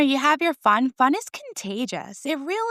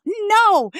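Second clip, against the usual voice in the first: loud, high, emphatic no; emphatic shouted no; 9 semitones higher, 5 dB louder than usual. Real, not acted. Answering her own question about the jokes, loud.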